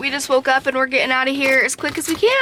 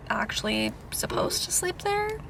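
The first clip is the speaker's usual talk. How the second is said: hushed, unvoiced aside; whisper; 9 semitones higher, 9 dB quieter than usual. Real, not acted. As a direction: whisper it like a secret. Unsure about sleeping at gym.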